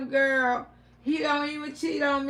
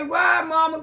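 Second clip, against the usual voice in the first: put-on childlike why; 3 semitones higher, 5 dB louder than usual. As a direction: ask mama why, pressing. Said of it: "But I say".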